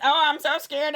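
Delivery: exaggerated "so scared" whimper, played for laughs; mocking voice. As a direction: imitate the friend's mocking impression of you. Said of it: "You even gave me a mocking voice".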